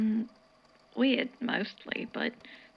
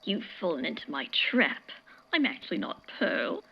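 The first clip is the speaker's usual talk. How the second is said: lower, hammed-up villain proclamation; mock witch of the stars; 5 semitones lower than usual. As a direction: tease him by playing a wicked star witch. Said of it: "I'm the Witch of the Stars".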